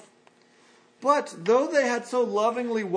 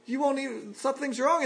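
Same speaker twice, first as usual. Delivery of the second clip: Paul's hurt plea; 5 semitones higher than usual. Acted. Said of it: "And Paul's saying".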